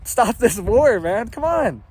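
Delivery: high, loud mock Biden drawl; Biden impression. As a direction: play a hammed-up Biden scolding. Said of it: "like Biden".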